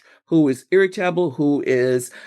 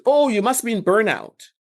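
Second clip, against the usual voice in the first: higher, mock-blunt diagnosis, said a touch too cheerfully; tactless blunt remark; 6 semitones higher than usual. Coworker bluntly telling a tired colleague, in a mock tactless tone. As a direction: play the clumsy colleague who blurts it out. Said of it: "That's not the approach we wanna take there".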